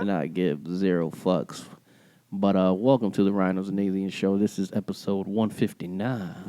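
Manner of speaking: low, smooth mock radio host; low-key radio intro. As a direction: announce it in a put-on on-air voice. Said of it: "This is our radio voice".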